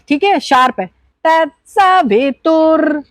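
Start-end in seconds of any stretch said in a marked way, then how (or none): 1.3-3.0 "तत्सवितुर" with "स" high and "वि" low; upper sa, lower vi. Shown as a demonstration. Teacher models the mantra's pitches. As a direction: chant "तत्सवितुर" slowly, "स" up. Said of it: "स is upper".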